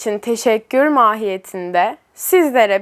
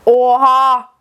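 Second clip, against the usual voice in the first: loud startled gasp of a word; shocked exclamation; 5 dB louder than usual. Real, not acted. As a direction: blurt it out in shock. Spicy food arrives, big shock.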